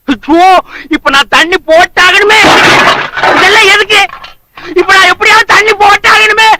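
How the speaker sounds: desperate craving. Acted. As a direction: cry out with urgent need, pitch climbing. Desperate man craving a drink.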